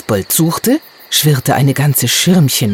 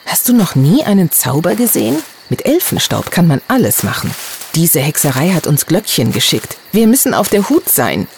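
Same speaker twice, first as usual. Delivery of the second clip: condescending; 3 semitones higher than usual. Acted. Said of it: "redete, als wäre ich ein Dümmling".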